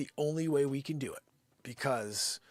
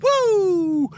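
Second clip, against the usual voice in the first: high, loud excited cheer; excited shout; 8 dB louder, slower than usual. Real, not acted. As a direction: shout it out with joy. Excited shout as Newman arrives.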